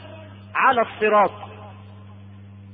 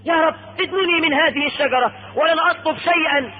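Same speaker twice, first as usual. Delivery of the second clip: raised, high-pitched entreaty; pleading; 6 semitones higher than usual. Acted. Man asking God for another tree, pleading. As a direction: beg earnestly from a higher pitch.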